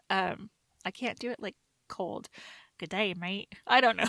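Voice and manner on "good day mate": tentative Australian accent, pitched lower and softer. Shown as a demonstration. Trying it cold for the cohost, tentative Australian accent. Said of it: "accents and impersonations of people".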